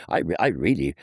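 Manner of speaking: aggrieved ruler pleading to be appreciated, voice rising high; Kaiser Wilhelm the Second. Retold or imitated. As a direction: protest in a high, plaintive put-on accent. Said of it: "That mixture of the plangent tones".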